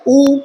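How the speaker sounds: ऊ with lips in a circle; rounded u vowel. Shown as a demonstration. Teacher showing lips go round on ऊ. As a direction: round the mouth for ऊ. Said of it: "गोल हो गया".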